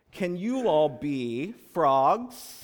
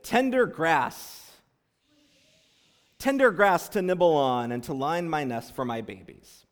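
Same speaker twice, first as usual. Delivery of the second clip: mouse's voice. Acted. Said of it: "said the small brown mouse".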